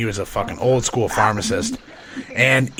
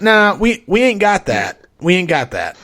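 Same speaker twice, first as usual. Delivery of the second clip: fake apology; 5 semitones higher, 3 dB louder than usual. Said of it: "he's like".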